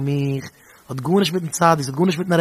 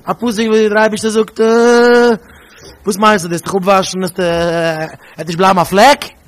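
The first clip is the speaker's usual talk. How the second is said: pupil asking; 5 semitones higher, 6 dB louder than usual. Retold or imitated. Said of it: "jede Jüngel hat ihm gesagt".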